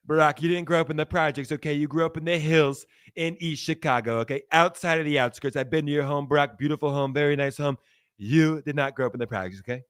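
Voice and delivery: lightly voiced impersonation of a scolding politician; Trump. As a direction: rebut a rival with a hint of presidential bluster. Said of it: "My Trump impersonations are not the best".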